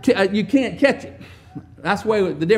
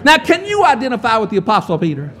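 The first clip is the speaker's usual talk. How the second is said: preaching shout; 2 semitones higher, 5 dB louder than usual. Real, not acted.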